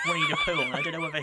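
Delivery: high-pitched giggling through the words; laughing as he explains the Pooh T-shirt. Real, not acted. Co-host laughing over his T-shirt, voice squeaking high with laughter.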